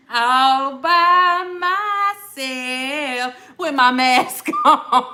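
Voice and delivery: laughing through the words. Real, not acted. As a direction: giggle while telling it. Laughs at herself alone in car.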